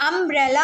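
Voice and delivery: "अम्ब्रेला" opening on a short "uh" vowel; "अम्ब्रेला" sounded "um-brella". Shown as a demonstration. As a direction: start "अम्ब्रेला" with a plain "uh", no "yoo". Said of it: "अ की आवाज़ आ रही है".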